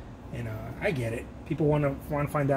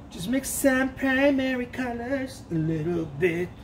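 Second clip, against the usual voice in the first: slow put-on voice; 6 semitones higher, slower than usual. Repeat in put-on voice.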